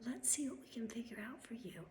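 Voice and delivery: mocking, dripping helpfulness; fake receptionist voice. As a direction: imitate a phony-sweet phone manner. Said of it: "That voice is fake".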